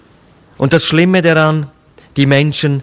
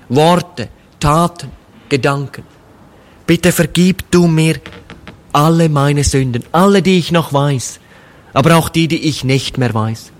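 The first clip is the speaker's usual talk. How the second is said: humble prayer. Shown as a demonstration. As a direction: pray it simply, like a penitent speaking to Jesus. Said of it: "in einem ganz einfachen Gebet sagt".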